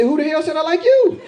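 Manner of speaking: put-on gruff old-school father. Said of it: "He said".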